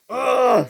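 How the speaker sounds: high, frustrated "ugh"; exasperated high growl of annoyance; mad groan. Acted. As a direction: groan out your anger. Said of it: "who was very mad with Gordon".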